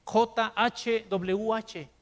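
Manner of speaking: letters spelled out slowly, one by one. Shown as a demonstration. Preacher showing the name can't be pronounced, slow spelling. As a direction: drag the letters out to show they can't be said. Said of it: "¿Cómo vamos a mencionar".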